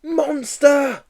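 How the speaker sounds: put-on high shrieking old lady; old woman screaming. Old woman dropping her shopping, high panicked shriek. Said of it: "screamed an old woman".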